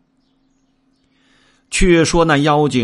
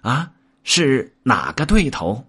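high-pitched imp voice; little demon; 5 semitones higher than usual. A narrator's reading. Minion asking the demon king who the foe is, high-pitched. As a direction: squeak it like a curious minion. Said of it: "小妖问".

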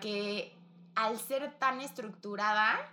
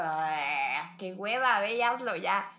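impatient; 5 dB louder, slower than usual. Retold or imitated. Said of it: "Ya me es como".

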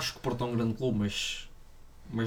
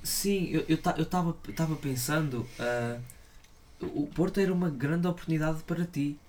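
put-on Brazilian Portuguese accent; 5 semitones higher, 3 dB quieter than usual. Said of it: "sotaque brasileiro".

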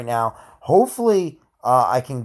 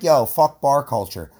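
drawled slow and louder, a mocking bro; 5 dB louder than usual. Podcast host mocks critics of bar culture, slow mocking bro voice. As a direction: sneer it out like a dismissive critic.

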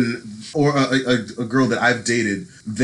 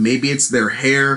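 ordinary talk, nothing marked

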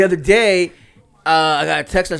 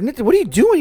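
higher and louder, calling across the jumper; 13 semitones higher, 7 dB louder, faster than usual. Retold or imitated. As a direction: shout the son's name in puzzled alarm.

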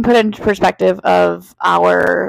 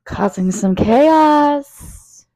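eerie drawn-out announcer; 3 semitones higher, much slower than usual. Acted. Spooky drawn-out show title.

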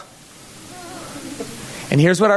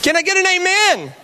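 hammed-up Southern preacher working up the crowd; Southern preacher accent; 6 semitones higher, slower than usual. Pastor mocking the verses as gospel, Southern preacher accent. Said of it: "in a Southern accent".

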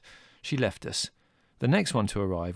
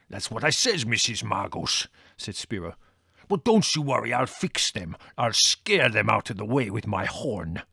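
put-on gruff Greek-accented driver; a hint of broken Greek-English. A narrator's reading. Spiro reassuring.

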